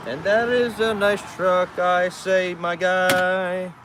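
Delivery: loud, high, slow praise to a truck; loud, high compliment; admiring call. Real, not acted. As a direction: call out to the driver. Calling to truck driver.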